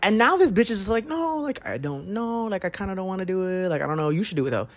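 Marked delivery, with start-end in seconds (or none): 1.1-4.7 high, soft whiny mimicry of a hesitant friend; mocking friend's whiny voice. Mimicking her friend who won't go, high and whiny. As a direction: pitch it up and whine like the reluctant friend. Friend's reluctant reply mocked.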